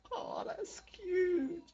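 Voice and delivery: slow high whisper; whispered coo. Acted. Whispered cooing at a hug.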